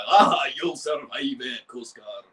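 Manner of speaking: lightly voiced gruff character; hearty gruff call that falls away; a hint of gruff tugboat; Big Mac. Shown as a demonstration. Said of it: "he sounds gruff".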